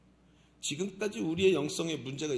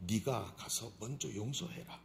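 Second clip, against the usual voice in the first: soft command; 6 semitones lower, 7 dB quieter than usual. Acted. God's command, said softly.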